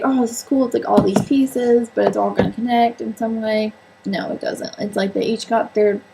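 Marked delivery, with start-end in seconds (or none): 0.0-3.7 mildly raised, louder, eager mock reaction; imagined excited reaction. Reader imagining how the book would be, mildly excited. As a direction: voice your hopeful first impression with a lift.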